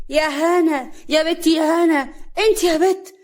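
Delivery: loud, high summons to a daughter-in-law; impatient high-pitched call. A narrator's reading. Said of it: "حماتها بتنادي عليها".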